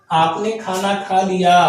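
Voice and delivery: "आपने खाना खा लिया" asked with a questioning tune at the end; teacher showing "आपने खाना खा लिया" as a question; asking as a question. Shown as a demonstration. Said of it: "हम प्रश्न क्या कर रहे हैं".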